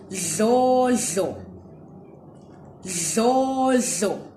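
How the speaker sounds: Dlodlo with a lateral dl and no n; Ndebele surname. Shown as a demonstration. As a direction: say Dlodlo twice, clearly. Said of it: "let's see if you can hear the difference".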